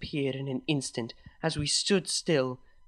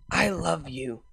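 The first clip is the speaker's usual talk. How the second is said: slowly and clearly; slower than usual. Acted. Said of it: "speaking slowly and clearly".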